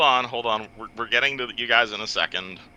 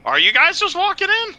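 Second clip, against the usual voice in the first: surprised; 6 dB louder than usual. Real, not acted. GM exasperated question.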